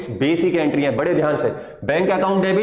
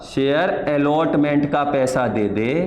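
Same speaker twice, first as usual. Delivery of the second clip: slow, gentle request for the money; lovingly asking; 4 semitones lower, slower than usual. Shown as a demonstration. Teacher acting the company asking a shareholder for money, gentle and slow. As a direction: coax it out kindly. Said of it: "बड़े प्यार से".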